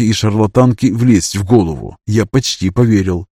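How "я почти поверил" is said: plain reading voice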